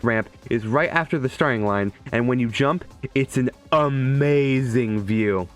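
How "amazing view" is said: slow, drawn-out gushing; awed enthusiasm. Real, not acted. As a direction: stretch it out in admiration. Gushing over a favourite track.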